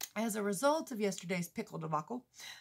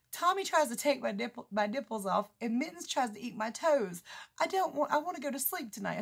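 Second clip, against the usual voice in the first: protesting son; 5 semitones higher, 3 dB louder than usual. Retold or imitated. Retells son's protest about cats.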